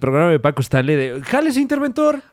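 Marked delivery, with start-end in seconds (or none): 1.2-2.2 high, booming game show host. Retold or imitated. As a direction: announce it like a TV host. Imitating TV host Paco Stanley.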